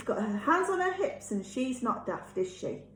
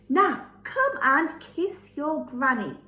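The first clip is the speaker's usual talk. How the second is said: louder, slow coaxing wolf voice; sweet-talking wolf; 5 semitones higher, 5 dB louder than usual. Acted. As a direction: lure her in sweetly and slowly.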